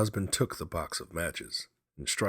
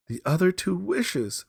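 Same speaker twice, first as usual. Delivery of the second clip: rapid; 8 dB louder than usual. A narrator's reading. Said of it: "she replied rapidly".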